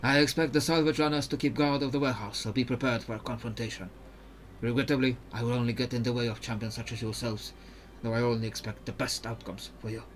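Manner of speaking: put-on careful, even-toned Ionian accent; Mirim, Ionian accent. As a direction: explain the mission in a measured Ionian accent. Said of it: "when I'm doing an accent".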